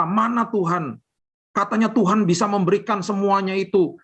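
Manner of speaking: indignant demanding cry of where is God; mock angry demand.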